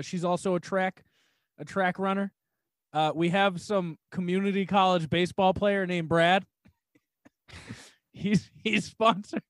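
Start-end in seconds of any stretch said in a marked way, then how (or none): 2.9-9.4 "Brad" and "sponsored" tipped upward, like questions; questioning tune. Real, not acted. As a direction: state it as if unsure, lifting the end of "sponsored". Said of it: "you're saying it like it's a question".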